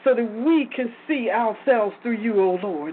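prayer. Acted. Prayer settling into thanksgiving.

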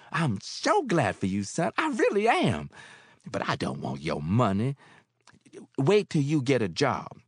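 motherly landlady; Mary, older woman. Acted. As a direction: speak as kindly Mary. Mary's voice.

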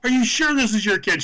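high teasing question; mock doubting. Wrestlers teasing the mother, high mock doubt. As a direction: needle her one last time. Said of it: "the third time we asked".

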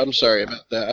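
ordinary talk

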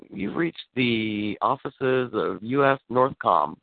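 slow, measured automated greeting; mock answering machine; recorded phone message voice. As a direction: read it like the recording on the line. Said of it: "It was like".

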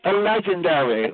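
slow, drawn-out mock of an affected caller; mocking imitation. Heckler parroting a rival's praise, mocking drawl. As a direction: mimic the other caller, stretching the word. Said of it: "When do females talk like that?".

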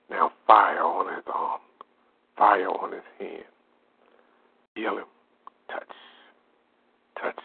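bind and cast it out in prayer. Acted. Healing prayer, binding spirits.

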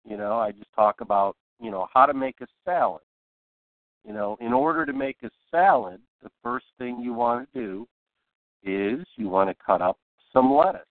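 unhurried demo with pauses between phrases; slow, spaced-out explaining; slow talking. Shown as a demonstration. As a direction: take your time, one phrase at a time. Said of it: "if I wanna talk real slow".

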